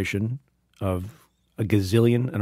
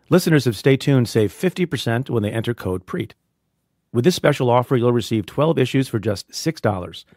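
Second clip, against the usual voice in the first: ad read. Acted. Sponsor ad read.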